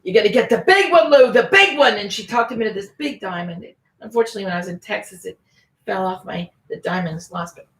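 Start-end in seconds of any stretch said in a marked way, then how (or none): 0.0-2.0 a bit higher, coaxing push; pushy jeweler. Retold or imitated. Jeweler pushing husband toward the big diamond, coaxing. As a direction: talk him into the big one. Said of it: "she said".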